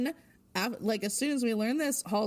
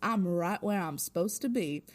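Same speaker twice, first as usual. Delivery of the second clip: a hint of mock Southern twang; Southern-ish accent; 3 semitones lower than usual. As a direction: put on a mild Southern accent. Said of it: "a classic Southern-ish".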